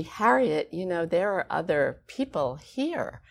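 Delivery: measured, emphatic public scolding; understated stern telling-off. Retold or imitated. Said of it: "she said it so sternly".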